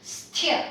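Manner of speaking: "Sthya" with the th clearly aspirated. Shown as a demonstration. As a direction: hiss the s straight into an aspirated th in "Sthya". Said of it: "don't forget to aspirate".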